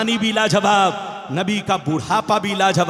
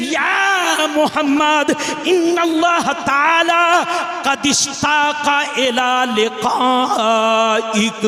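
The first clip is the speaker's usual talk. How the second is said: high, slow ringing proclamation; proclaimed call; 4 semitones higher, slower than usual. Acted. Jibreel announcing to the Prophet, a slow ringing high cry. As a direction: cry out the angel's message.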